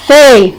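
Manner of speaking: "fe" set apart as the stressed syllable; single out "fe" as one held beat; stressed syllable alone. Shown as a demonstration. Teacher pointing out the tonic syllable, stressed syllable alone. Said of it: "sílaba tônico".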